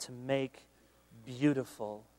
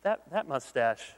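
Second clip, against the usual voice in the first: backpedaling husband; 2 semitones lower, 3 dB louder than usual. Retold or imitated. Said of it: "And he says".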